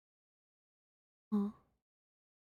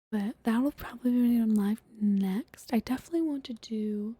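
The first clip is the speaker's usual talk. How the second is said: whispering. Acted.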